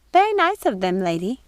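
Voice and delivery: high, puzzled housekeeper voice; wavering, lost old woman; confused old woman. Acted. Mrs Tittlebottom asks Gothel about her fall, confused.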